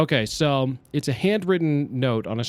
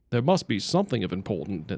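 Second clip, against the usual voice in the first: put-on lower, lightly British-accented reading; British-tinged character voice; 4 semitones lower, 3 dB quieter than usual. Streamer retrying a lost character voice, slightly British accent. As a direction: drift into British while feeling for the character. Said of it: "I'm getting British now".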